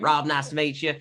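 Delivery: put-on fix the accent and say "Rob, nice to meet you" again in character; corrected accent. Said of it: "Wrong accent entirely".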